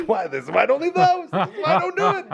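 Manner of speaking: high-pitched, exasperated mock outburst; angry rant. Griping to friends about everyone being awful outside, mock angry. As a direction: act out an indignant high-voiced tirade. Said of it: "Oh, angry".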